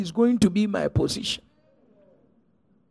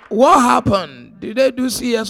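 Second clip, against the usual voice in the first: urgent question; 5 semitones higher, 6 dB louder than usual. Retold or imitated. Anxious question to husband.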